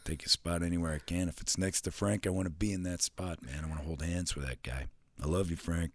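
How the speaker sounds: mock crush on Frank; Gruden impression. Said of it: "Frank and John Gruden".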